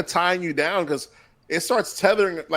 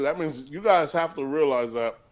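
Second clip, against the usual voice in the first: talking while chewing; words through a mouthful of food; mouth full. Real, not acted. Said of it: "stop talking with food in your mouth".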